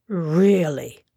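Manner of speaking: put-on indignant old lawyer snapping a single word; outraged. A narrator's reading. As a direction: bristle at the insult. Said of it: "said the outraged Sir John".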